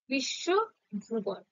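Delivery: slow teaching demo of বিশ্বভুবন; slow syllable by syllable. Shown as a demonstration. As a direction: stretch বিশ্বভুবন out very slowly, one syllable at a time. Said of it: "যেমনটা উচ্চারণ করবে".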